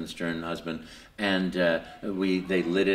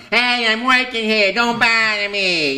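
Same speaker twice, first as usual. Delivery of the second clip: grumpy tough guy; 14 semitones higher, 10 dB louder than usual. Retold or imitated. The rude plumber he didn't want, a loud high gruff guy. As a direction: bark at the kid who bugs you. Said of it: "sort of, uh, guy".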